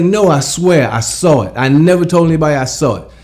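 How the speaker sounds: insist, voice jumping up; insistent protest. Retold or imitated. Friends doubting him, high and insistent. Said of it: "I'm like".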